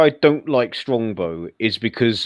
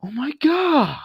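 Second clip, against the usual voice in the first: high-pitched American "imitation"; mock American exclamation; generic American accent; slower than usual. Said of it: "his accent as my generic American one".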